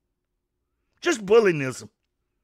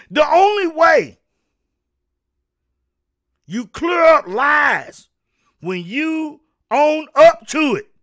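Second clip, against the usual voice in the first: slow stern shout; slower than usual. Real, not acted. Scolding the government, slow stern shout. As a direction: lay it down word by word.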